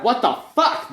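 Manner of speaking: high, sickened curse; disgusted exclamation. Acted. Human watching the gore, high sickened curse. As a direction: blurt it out, gagging. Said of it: "the human said".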